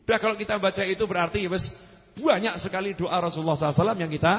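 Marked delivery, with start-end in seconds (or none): 2.2-4.3 rushed, rapid delivery; too fast. Real, not acted. Preacher hurrying through praise of the prayers, too fast. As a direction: rattle through the phrase quickly. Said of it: "Ngapunten, kecepetan ndak ini?".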